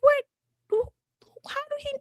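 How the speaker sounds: high, hushed mock disbelief; retold speechless bafflement, barely voiced; baffled. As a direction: whisper it in stunned confusion. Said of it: "I was baffled".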